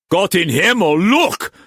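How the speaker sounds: high, loud cry of alarm; shocked exclamation. A narrator's reading. Mauss pointing out the window at the procession, shocked exclamation. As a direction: burst out in astonishment.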